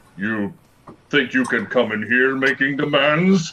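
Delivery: celestial angel voice. Narrating a planetar landing in front of him, speaking in planetar voice. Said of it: "in planetar voice".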